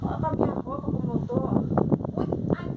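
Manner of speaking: high, squeaky lament; whiny complaint. Acted. Wife complaining to her husband about her dirty clothes, high whiny lament. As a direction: whine it up high, pitiful.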